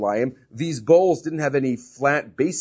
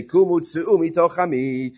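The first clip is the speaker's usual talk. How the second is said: raised-pitch proclamation, mildly projected; proclaimed royal order; 4 semitones higher than usual. Acted. Pharaoh orders the people out of his nation, mildly proclaiming. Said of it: "his voice traveled across all of Egypt".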